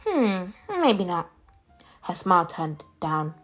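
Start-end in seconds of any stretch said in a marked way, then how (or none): 0.1-1.3 slow, doubtful musing. A narrator's reading. Eunhae rejects the name at the mirror, doubtful. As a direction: draw it out as you reconsider.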